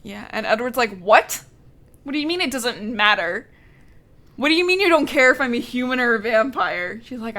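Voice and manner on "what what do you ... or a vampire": mock incredulous, building louder on each question; freaking out. Imitating a vampire freaking out at his girlfriend, mock incredulous. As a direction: act out mild outraged disbelief. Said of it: "he's, like, freaking out".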